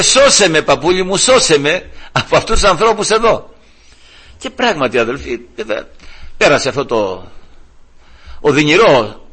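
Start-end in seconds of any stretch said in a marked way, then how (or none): 0.0-3.5 raised, urgent imitated plea; pleading child. Child begging grandfather to save him, imitated urgent pleading. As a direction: beg for rescue as a child would. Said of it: "μου έλεγε".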